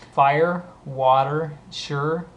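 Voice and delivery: usual speaking voice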